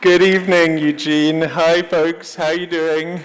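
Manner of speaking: fix the greeting with a jolt upward; correcting himself, high and bright. Real, not acted. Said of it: "not good night".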